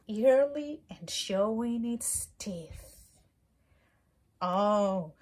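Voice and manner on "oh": grouchy ladybug voice. Acted. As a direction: pick a fight in a squeaky bug voice. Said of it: "said the grouchy ladybug".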